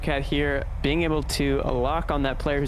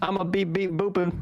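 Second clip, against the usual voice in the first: toy robot voice; 4 semitones higher than usual. Acted.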